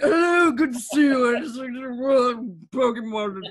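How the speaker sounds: put-on slow, drawn-out, tipsy drunk voice. Streamer retells playing Pokemon Shield with a drunk Chairman Rose, mock-drunk Chairman Rose voice. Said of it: "we created a drunk Chairman Rose".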